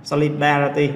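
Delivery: Solidarity, third syllable DAR stressed. Shown as a demonstration. Teacher repeating the example for students, stress on DAR in Solidarity. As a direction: make DAR the strong beat of Solidarity. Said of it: "âm tiết số ba".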